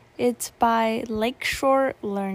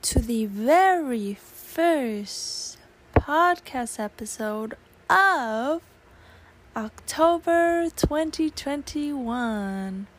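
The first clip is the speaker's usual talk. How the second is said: excited; 5 semitones higher, much slower than usual. Real, not acted. Podcast intro greeting.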